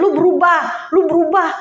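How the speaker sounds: imitating a nagging scold; mock nagging. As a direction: nag someone to change. Mocking nagging at others.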